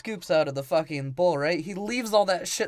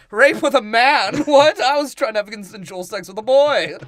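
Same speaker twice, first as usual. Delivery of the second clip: mock indignant shock; 3 semitones higher, 5 dB louder than usual. Concierge voiced, indignant.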